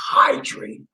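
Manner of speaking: "Hydrated" with the first syllable stressed and stretched; "Hydrated" led by a strong H; emphasis on HY. Shown as a demonstration. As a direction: punch the "Hy" in "Hydrated". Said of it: "Emphasis on the H Y".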